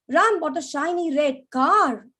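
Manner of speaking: bright, lifted delight; excited. Shown as a demonstration. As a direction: say it like great news. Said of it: "more excited because he's got a car".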